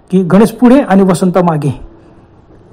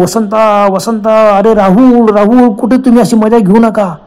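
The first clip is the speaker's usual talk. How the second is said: raised, higher shouts into the dark; loud calling; 3 semitones higher, 4 dB louder, slower than usual. Acted. Ganesh shouting for his missing friends, loud and pleading. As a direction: call out louder and louder, searching. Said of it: "मोठमोठे नारळ मारले".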